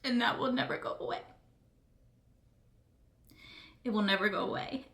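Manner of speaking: speaking through real tears; crying. Real, not acted. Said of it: "I know I'm crying my eyes out".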